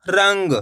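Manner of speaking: रंग said as one syllable, quick nasal half-n before ग. Shown as a demonstration. Teacher blending letters into a word, रंग with a nasal half-n. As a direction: say रंग with a brief half-n through the nose. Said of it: "तेजी के साथ इसका उच्चारण निकलेगा नाक से".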